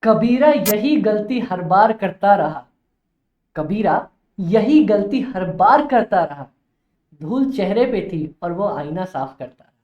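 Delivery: slow, measured recital of a couplet; shayari recitation. Acted. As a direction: recite it like shayari, lingering on the opening lines. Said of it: "बहुत प्यारी सी शायरी याद आ रही है". (शायरी के अंदाज़ में)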